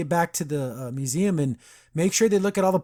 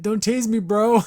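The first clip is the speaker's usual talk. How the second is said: yelling; 6 semitones higher, 4 dB louder than usual. Retold or imitated. Quoting arrested henchman yelling.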